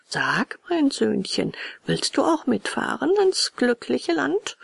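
smiling question, rising high at the end; smiling coaxing. A narrator's reading. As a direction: coax the boy along with a smile. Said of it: "Lächelnd fragte der Kutscher".

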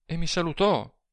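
high woman's exclamation; lightly voiced woman, exclaiming high. A narrator's reading. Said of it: "esclamò ella".

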